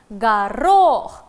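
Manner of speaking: "Горох" dictated loudly with the stress on РОХ; stress on the syllable. Shown as a demonstration. Teacher dictating vegetable names, loud stressed syllable. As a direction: punch the second syllable of "Горох". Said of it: "ударение на второй слог".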